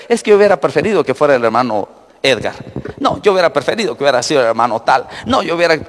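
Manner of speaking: quick, whiny mock grumbling; mocking complaints. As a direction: rattle off the petty gripes. Imita quejas de la congregación. (imitación burlona y rápida de las quejas)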